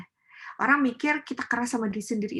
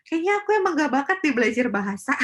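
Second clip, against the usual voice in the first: resigned self-talk; 5 semitones higher, 5 dB louder, faster than usual. Retold or imitated. Acting out defeated learner.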